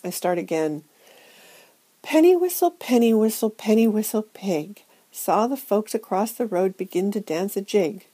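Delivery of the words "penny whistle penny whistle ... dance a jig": high, loud, put-on brightness; forced cheer. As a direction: fake a cheerful sing-song. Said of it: "ghastly imitation of cheer".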